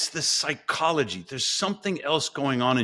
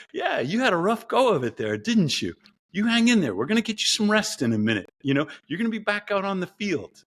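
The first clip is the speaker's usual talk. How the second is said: put-on higher, soothing parent to a hurt kid; tender parent; 6 semitones higher than usual. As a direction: comfort an injured child. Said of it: "And sometimes I'm like".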